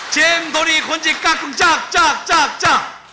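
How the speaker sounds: high, loud sing-song clap calls; kindergarten teacher voice. Acted. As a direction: call out the clapping game like a kids' teacher. Leads clapping game.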